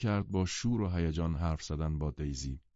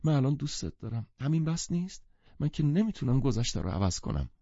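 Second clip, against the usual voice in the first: moaning; 6 semitones higher than usual. Acted. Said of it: "با ناله به گتسبی گفت".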